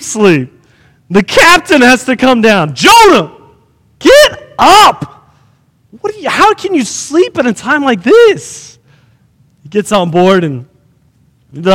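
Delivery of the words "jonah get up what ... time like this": high, exasperated shout; captain's rousing yell. Retold or imitated. Captain comes down to wake Jonah in the storm, yelling. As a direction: yell to wake a sound sleeper.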